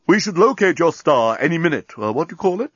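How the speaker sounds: lightly voiced alien captain; polite and curious; Captain Bolfas, courtly. Captain asking Nettie about her star, courtly.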